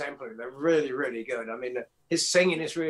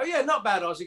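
higher, breezy praise for the singer; casual approval; 5 semitones higher than usual. Retold or imitated. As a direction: toss off a light "not bad". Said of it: "And I go".

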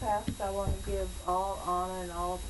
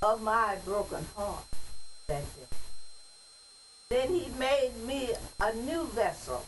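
poem recitation. Acted. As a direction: recite it like a church poem, each phrase set apart. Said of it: "But I'm gonna read it as a poem".

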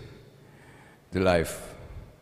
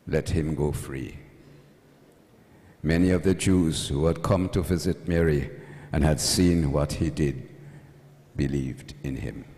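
measured, solemn liturgical reading voice; Gospel reading. Acted. Priest reading the Gospel to mourners, solemn and measured. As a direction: proclaim the text to the congregation.

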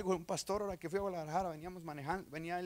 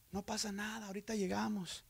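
softer, unhurried calming words; calm reassurance; 7 dB quieter than usual. Retold or imitated. Pastor calms the angry passenger in his car, quiet and calm. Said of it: "yo bien tranquilo, calmado".

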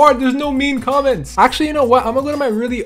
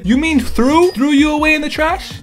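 incredulous; 6 semitones higher than usual. Real, not acted. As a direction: pitch jumps high in disbelief. Correcting the typo incredulously.

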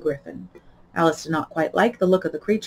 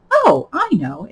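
higher, louder eager cry; exclaiming; 8 semitones higher, 6 dB louder, slower than usual. A narrator's reading. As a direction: blurt it out eagerly. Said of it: "exclaimed Alice".

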